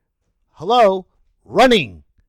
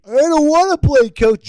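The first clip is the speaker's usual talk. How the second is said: high, loud whiny player; mock bratty kid refusing; copping an attitude; 7 semitones higher, 7 dB louder than usual. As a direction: whine back at the coach with attitude. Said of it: "copping an attitude".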